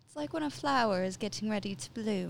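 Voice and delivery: soft put-on British accent; quick, lightly posed British accent. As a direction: poetic musing in a mock British accent. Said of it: "You fucked up my British accent".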